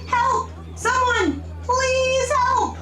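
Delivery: acted distant damsel's scream; mock scream for help. A narrator's reading. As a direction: cry out for help in a high storybook voice. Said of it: "he does hear someone screaming".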